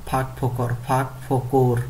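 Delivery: ফাঁক ফোকর said carefully as phak-phokor; pronunciation drill. Shown as a demonstration. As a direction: model ফাঁক ফোকর twice for students. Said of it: "উচ্চারণ করতে হবে এইভাবে".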